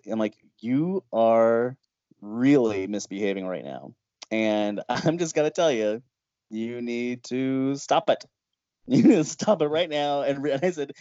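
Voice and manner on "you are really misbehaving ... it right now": scolding. Retold or imitated. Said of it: "I really was scolding him like a little kid".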